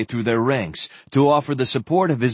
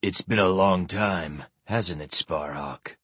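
neutral tone; 5 semitones lower, 4 dB quieter than usual. Acted. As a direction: say it evenly, giving nothing away. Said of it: "Martel said in a neutral tone".

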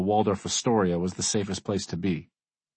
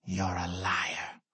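hurt; 7 dB quieter, much slower than usual. Acted. Betrayed boy confronts his hero.

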